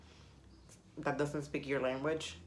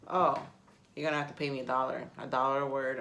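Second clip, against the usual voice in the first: joking demand; 5 dB louder, faster than usual. Retold or imitated. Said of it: "I always tell the joke as".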